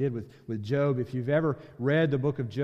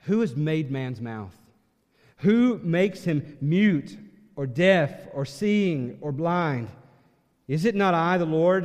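higher, louder and slow divine rebuke; booming God; 3 semitones higher, 6 dB louder, slower than usual. Retold or imitated. God rebuking Moses' excuse, loud and slow. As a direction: thunder each question at Moses, slowly. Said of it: "he says to Moses".

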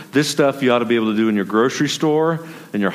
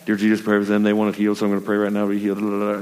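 mock hurried prayer; much faster than usual. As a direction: rattle off a rote prayer. Mimics hurried, unthinking prayer.

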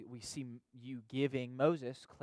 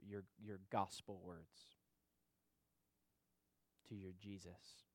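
usual speaking voice

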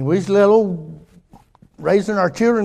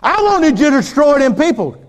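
whiny Jonah; 7 semitones higher, 4 dB louder than usual. Retold or imitated. Jonah complaining to God.

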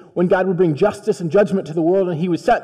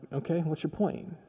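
impatient disciples; 13 dB quieter than usual. Acted.

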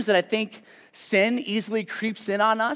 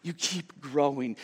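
hushed Jesus; 4 semitones lower, 7 dB quieter, slower than usual. Acted. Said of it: "And Jesus is saying".

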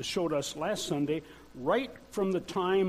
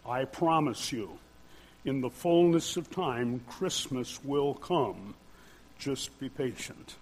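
lightly voiced wise grandfather, measured and reassuring; a hint of a grandfather's patient counsel; wise grandfatherly voice; 3 semitones lower than usual. Answering children who can't wait for Christmas, wise grandfatherly voice. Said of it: "turn on my wise grandfatherly voice".

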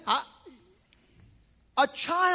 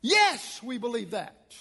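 hesitant believer; 7 semitones higher, much slower than usual. Retold or imitated. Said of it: "We go".

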